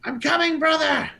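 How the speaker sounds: high, loud heroic call; shouting to brother. Acted. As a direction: shout back to your brother in peril. Answering his screaming brother in game.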